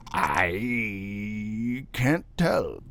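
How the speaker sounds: drawn-out, helpless answer; slow, helpless porter. A narrator's reading. Porter answering his master, slow and helpless. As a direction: shrug it off slowly.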